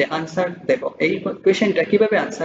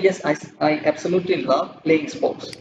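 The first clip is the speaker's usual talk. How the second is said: slow read model answer; much slower than usual. Shown as a demonstration. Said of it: "তো এখানে বললাম".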